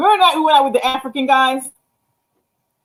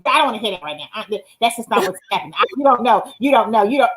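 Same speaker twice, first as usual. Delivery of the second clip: mildly mocking, repetitive protests in a lower voice; argumentative friend impression; 3 semitones lower than usual. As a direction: lightly imitate her cutting someone off. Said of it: "That's how she sound when she talking to me".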